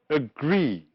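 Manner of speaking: agree, stressed on GREE, falling tone; light a, then a long GREE in agree; stress on second syllable. Shown as a demonstration. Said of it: "mark the stressed syllable".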